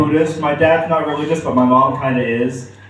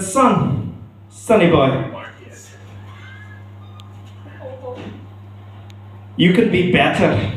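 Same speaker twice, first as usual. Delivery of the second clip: Scottish dad; 2 semitones higher, 4 dB quieter, slower than usual. Retold or imitated. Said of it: "I'm not too bad at a Scottish accent".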